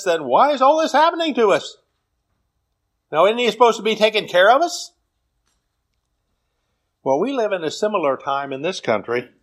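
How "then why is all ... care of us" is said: higher-pitched, mildly indignant questioning; lightly acted bewildered challenge; plaintive protest. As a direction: voice Gideon's complaint, pitch climbing. Gideon protesting his people's plight.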